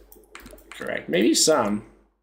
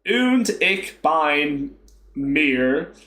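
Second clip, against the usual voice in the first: very slow Texas drawl on German; Texas accent; much slower than usual. Shown as a demonstration. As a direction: butcher the German with a drawn-out Texan twang. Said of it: "I'll put, like, a Texas accent on".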